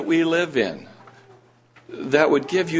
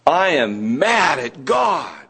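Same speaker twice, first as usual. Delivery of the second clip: resentful believer; slower than usual. Retold or imitated. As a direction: declare it like a grudge held. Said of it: "make this comment to me".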